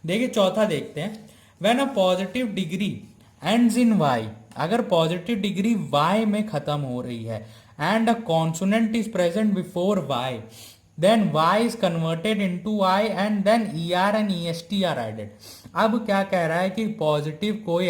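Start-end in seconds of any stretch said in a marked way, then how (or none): 1.6-4.3 reads each word slowly and evenly, as if for notes; slow dictation read. Acted. Teacher to students copying the rule, slow dictation. 7.8-15.2 reads each word slowly and evenly, as if for notes; slow dictation read. Acted. Teacher to students copying the rule, slow dictation.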